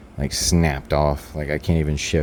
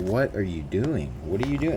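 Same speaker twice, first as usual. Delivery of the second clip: baffled question, rising higher on the repeat; bewildered asking; 4 semitones higher than usual. Retold or imitated. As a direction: ask it in disbelief, without anger. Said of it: "I didn't fucking threaten him or get angry".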